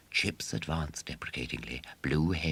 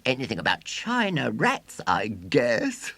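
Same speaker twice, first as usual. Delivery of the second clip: put-on high, loud boastful showman boy; 10 semitones higher, 6 dB louder than usual. A narrator's reading. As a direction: crow it like a swaggering boy showman.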